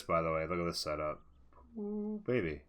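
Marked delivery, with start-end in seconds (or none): 1.8-2.6 excited. Real, not acted. Admiring a player's setup.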